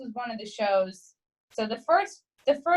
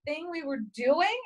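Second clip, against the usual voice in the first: higher, slightly small apologetic voice; mock-sheepish apology, pitched up; mortified apology; 5 semitones higher, 3 dB quieter than usual. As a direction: re-enact an embarrassed, flustered apology. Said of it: "I was fucking mortified".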